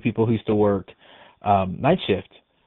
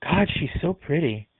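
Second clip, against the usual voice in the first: higher, slow, admiring coo; lightly acted wonder, pitched up; imitated tender admiration; 5 semitones higher than usual. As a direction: gush gently over a child, drawn out. Acting resident admiring unseen girl.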